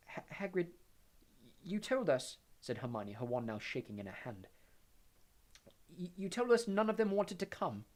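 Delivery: put-on shaky, stammering young girl; scared schoolgirl, voice trembling; frightened Hermione. A narrator's reading.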